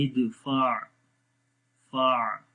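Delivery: "फा" in "इदफा" closed on a soft throaty ain. Shown as a demonstration. Teacher repeats for learners, "इदफा, फा" with soft ain endings. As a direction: end "फा" on a gently held ain. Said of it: "आइन की आवाज़ को थोड़ा soft करेंगे".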